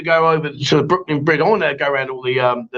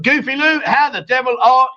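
dog greeting; 7 semitones higher, slower than usual. Acted.

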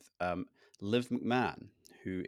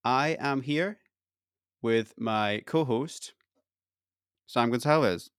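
long dramatic pauses before the name, slowing on co-host; 4 semitones higher, 6 dB louder, slower than usual. Acted. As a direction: build suspense with pauses before Sam Gonzalez. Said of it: "that was like a pause for effect".

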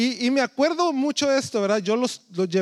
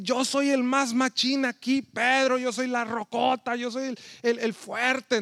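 presumido; 5 dB quieter than usual. Retold or imitated. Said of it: "se la pasa presumiendo".

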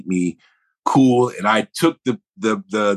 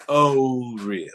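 retold skepticism; slower than usual. Acting out the actor's doubtful reply.

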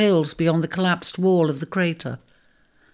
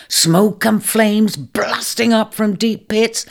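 vivid dramatic telling; 4 semitones higher, 3 dB louder than usual. Acted. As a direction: paint the catastrophe for him. Ram recounts earthquake vividly.

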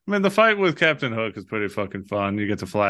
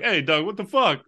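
mock outrage; 7 semitones higher than usual. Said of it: "He's like".

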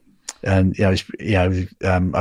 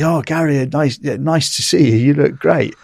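mock cheerful greeting; 6 semitones higher than usual. Mate greets him as if fine.

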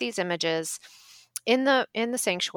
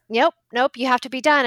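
imitated scolding, louder and higher; mock yell; 5 semitones higher, 4 dB louder than usual. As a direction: refuse firmly in a raised voice. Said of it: "started yelling at us".

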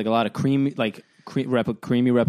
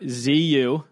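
spelling out letters; 3 semitones higher than usual. Real, not acted. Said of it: "I couldn't spell it if you paid me to".

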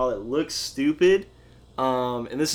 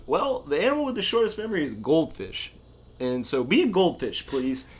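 imitating Ted's Kansas accent. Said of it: "That was a good accent".

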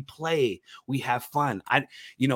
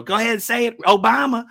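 higher and louder hammed-up redneck host; redneck character voice; 8 semitones higher, 7 dB louder than usual. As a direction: egg the crowd on like a redneck tour guide. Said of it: "and I go".

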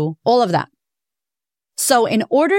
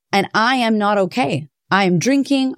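usual speaking voice

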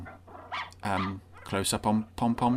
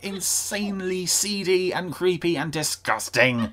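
higher, louder disgusted rant; exasperated rant; 8 semitones higher, 3 dB louder than usual. Real, not acted. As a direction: rant at the creepy ending. Reviewer ranting, disgusted.

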